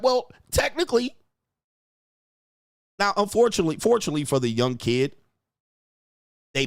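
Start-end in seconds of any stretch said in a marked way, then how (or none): 0.0-1.2 higher, prim mocking tone; a smug little lawyerly jab; mock prissy technically. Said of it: "she's like".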